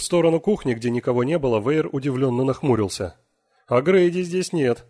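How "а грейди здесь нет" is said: slow, louder, higher and certain; matter-of-fact certainty. A narrator's reading. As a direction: state it as beyond doubt. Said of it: "сказал Белл таким тоном, словно это не вызывало сомнений".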